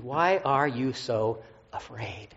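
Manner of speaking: drawn out slowly, as if hearing it again; slow solemn question, recalled. Retold or imitated. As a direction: linger on every word, searching. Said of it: "went right back to Monday".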